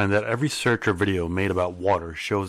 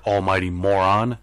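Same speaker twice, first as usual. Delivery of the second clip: taunting demand; 4 dB louder than usual. Acted. Mocking taunt at self-made gods.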